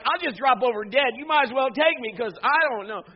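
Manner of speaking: mock terror, giving up on life; terrified. Preacher acts his young self panicking at the vision. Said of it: "And I'd be like".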